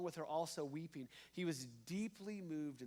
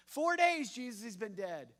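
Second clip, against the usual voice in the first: blunt mourner; 5 semitones higher, 8 dB louder than usual. Retold or imitated. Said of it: "It's like, uh, stabbing him again".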